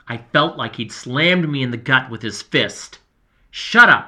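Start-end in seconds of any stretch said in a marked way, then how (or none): 3.5-4.1 sharp, loud snap, high and hard; snapping. A narrator's reading. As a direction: bite the words off angrily. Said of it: "I heard Raylene snap at Andrew".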